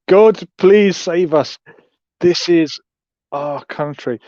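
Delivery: lampoon her tearful plea, then let it drop; mock upset supporter. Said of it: "This Trump supporter is very upset".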